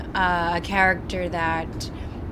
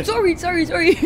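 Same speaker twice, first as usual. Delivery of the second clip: high, louder repeated apology; mock flustered apology; 10 semitones higher, 6 dB louder, faster than usual. Actress acting out a stunt mishap with co-star, flustered apology. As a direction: blurt it out, hammed-up and apologetic. Acts out apologizing in fight scenes.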